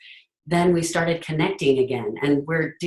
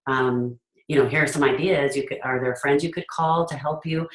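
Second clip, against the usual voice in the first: caring parent. Retold or imitated. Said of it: "my attitude to my son would be".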